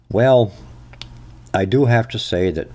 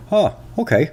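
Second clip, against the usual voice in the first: satisfied listener; 11 semitones higher than usual. Retold or imitated. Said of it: "somebody will say".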